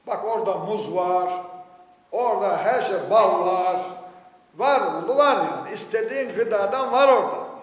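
loud, insistent listing; emphatic preaching. Acted. Preacher listing the spiritual food on offer, emphatic. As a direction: pile up the items with forceful emphasis.

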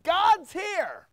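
God's said high and long; stress on God's. Acted. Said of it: "We're not moving God down to here".

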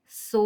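Со with the о held very long; long steady vowel ending Со; drawn-out vowel. Shown as a demonstration. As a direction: sustain the о of Со. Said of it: "о голосний".

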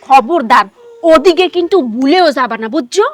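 stern warning. Acted. Wife sternly warns husband.

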